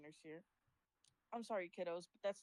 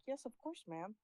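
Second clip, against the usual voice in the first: fake customer service; 3 semitones higher than usual. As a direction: answer like an obliging shop worker. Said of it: "Customer service".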